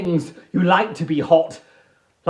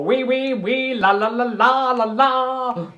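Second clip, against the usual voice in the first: mock French; 5 semitones higher than usual. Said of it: "if I'm in France".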